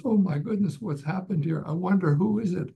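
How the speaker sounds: a housewife finding a man on her doorstep; mildly alarmed woman; shocked lady. Acted. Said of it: "she says".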